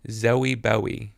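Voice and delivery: Zoe Bowie drawn out in an English accent; slow, put-on English accent. Shown as a demonstration. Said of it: "with an English accent".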